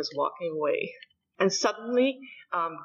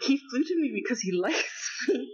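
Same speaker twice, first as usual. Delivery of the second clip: laughing; 4 semitones higher than usual. Real, not acted. Laughing through quote.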